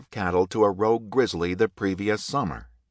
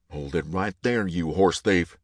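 bellowing; 3 semitones lower than usual. A narrator's reading. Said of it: "Hunter bellowed".

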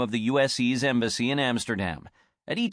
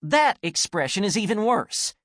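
high, louder angry snarl; 8 semitones higher, 3 dB louder than usual. Acted. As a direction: keep snarling at her. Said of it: "snarled Anne".

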